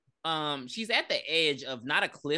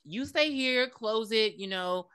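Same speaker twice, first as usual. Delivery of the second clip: strong woman voice; 4 semitones higher than usual. Retold or imitated. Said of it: "acting like her name, like a strong black woman".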